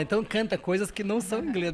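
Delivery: ordinary talk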